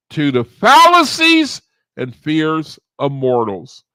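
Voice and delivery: emphatic recital, key words belted out; affirmation recital. Acted. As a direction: lead a chanted affirmation in deliberate phrases. Recites affirmation after a count.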